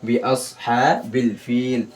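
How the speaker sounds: slow, measured recitation with long vowels; Quran recitation. Shown as a demonstration. Teacher models the verse for students, slow recitation. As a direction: recite slowly, drawing out the long syllables.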